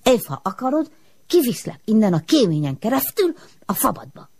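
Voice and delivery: high, wavering eerie voice; strange smoke voice. A narrator's reading. The smoke offers to carry Ilus up the chimney, strange and high. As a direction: lure her out like a spirit. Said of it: "miért beszélsz te olyan furcsán?".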